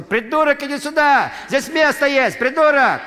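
loud high shout across the field; yelling across the stadium. Retold or imitated. Boy shouting to his friend across the stands, loud high yell. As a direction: bellow to a friend across the pitch. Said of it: "он кричал".

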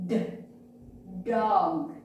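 short separate d, then the whole word "Dog"; isolated d sound. Shown as a demonstration. Teacher explaining why dog has no p, isolated d. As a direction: sound out the d before saying "Dog". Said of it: "the first sound of dog is".

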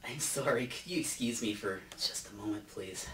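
quiet aside. Acted. Aside, excusing himself from audience.

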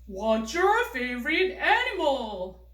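put-on slow, deliberate model sentence for kids; 천천히 또박또박. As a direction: say each word slowly and loudly, like a teacher model. 교사가 탐 역할로 시범. (아이들에게 천천히 또박또박 들려주는 탐 목소리)

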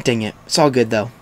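normal talking voice

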